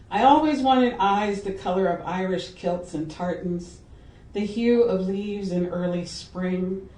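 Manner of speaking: measured recital in phrases; poem reading. Acted. Poet reading The Color Of to listeners, measured recital. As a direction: read it as verse, line by line. Reads her poem aloud.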